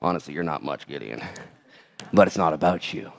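God quietly leveling with Gideon; gentle blunt God. Acted. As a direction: tell him the truth kindly, hushed. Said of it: "the Lord's like".

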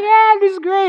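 put-on high, loud whoop of a delighted kid; excited kid. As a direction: squeal it like a thrilled child. Dad playing with excited kids.

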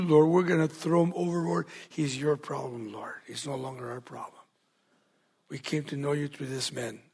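a hint of a humble sailors' prayer, growing hushed; sailors praying. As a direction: pray it out as the sailors, then let it sink. Voices sailors' prayer at length.

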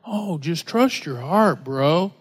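slow, dismissive mock of easy advice; a mild sarcastic drawl on trust your heart; mocking the world's advice. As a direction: sneer it a little, bro-style. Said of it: "when someone says".

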